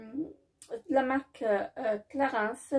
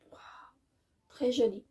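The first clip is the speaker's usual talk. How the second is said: whispered admiration. Real, not acted. Admiring the lipstick swatch.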